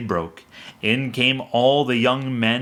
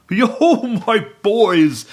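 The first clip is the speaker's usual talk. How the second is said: high, much louder hearty call; rally the boys cheerfully; jovial Fezziwig; 9 semitones higher, 6 dB louder, much slower than usual. A narrator's reading. Fezziwig calling his apprentices, jovial shout.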